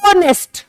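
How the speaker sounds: ऑनेस्ट broken in two pieces, first syllable held long; split into syllables. Shown as a demonstration. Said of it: "कितने टुकड़े बन रहे हैं बोलते हुए". (ऑनेस्ट को दो टुकड़ों में खींचकर बोलें)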